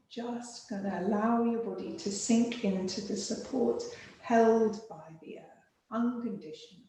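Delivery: soothing yoga nidra voice; guided meditation. Acted. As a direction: ease the listener into rest with pauses. Leads a relaxation practice.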